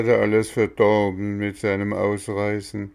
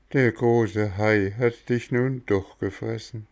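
higher little voice, softened with sorrow; sad cricket; 4 semitones higher than usual. Acted. Cricket tells Bengele the goat is gone, mild sad cricket voice. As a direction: tell of the goat's farewell gently.

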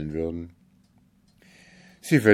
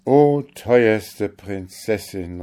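slow, louder plea to the princess; eager cry; 3 semitones higher, 7 dB louder, slower than usual. A narrator's reading. Kalif cries out eagerly to the owl princess, slow and louder. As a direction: call out to her with hope. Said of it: "rief der Kalif".

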